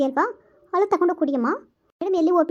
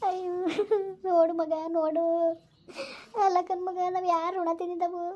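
tearful lament. Acted. Mother lamenting to her child that someone cursed her, tearful lament. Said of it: "ಅಮ್ಮ ಅಳ್ಬೇಡ ಸುಮ್ನಿರಮ್ಮ".

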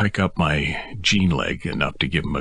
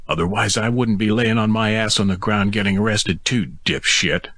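hollered; 7 semitones higher than usual. A narrator's reading. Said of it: "I hollered from the ground".

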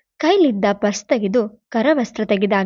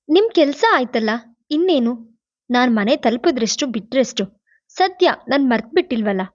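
bitter; 2 semitones higher than usual. Acted. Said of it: "Shachi ಕಹಿಯಾಗಿ ಹೇಳಿದಾಗ".

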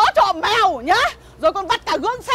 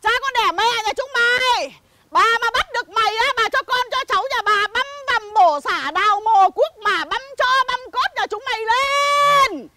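chửi đổng ầm ĩ; 3 semitones higher than usual. Acted. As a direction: hurl curses at the whole village. (chửi đổng giả vờ đanh đá)

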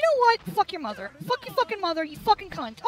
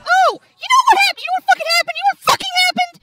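mocking his past self; 8 semitones higher, 4 dB louder than usual. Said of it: "All because I thought".

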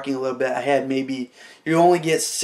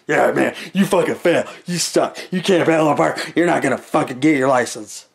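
lightly voiced jerk instructor; sneering mock of the examiner; mock rude instructor; 3 dB louder than usual. Imitating the examiner failing him, mock rude. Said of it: "not being a dick".

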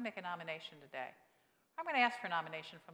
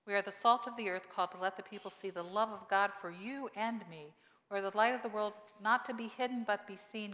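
proclaimed verses; 5 dB louder than usual. Shown as a demonstration. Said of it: "look at the verses".

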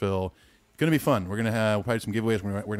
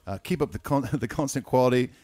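put-on light Australian accent through the email; Aussie accent. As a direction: read it like a mate from Perth, lightly. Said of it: "it must be in Ethan's Aussie accent".

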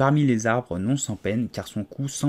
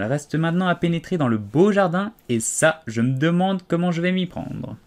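Alice musing aloud; 6 semitones higher, 3 dB louder than usual. A narrator's reading. Alice talking to herself.

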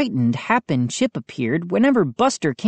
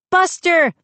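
high, sudden excited call; crying out; 13 semitones higher, 4 dB louder than usual. A narrator's reading. Mindy hearing her dog bark, crying out. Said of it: "Mindy cried".

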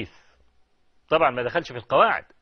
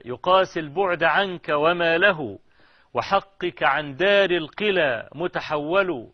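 measured classical Arabic verse recitation; poem recitation. Acted. Lover addressing his absent beloved in verse, measured poem recitation. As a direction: recite each hemistich evenly, pausing between.

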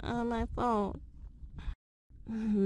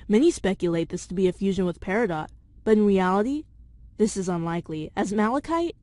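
script reading; 4 dB louder, faster than usual. Acted. Reads theory script aloud.

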